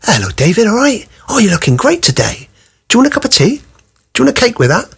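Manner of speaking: butter him up like a doting host; imitating carers fussing over a teenage boy with tea and cake; over-nice staff voice. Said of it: "speak all nice to you like that".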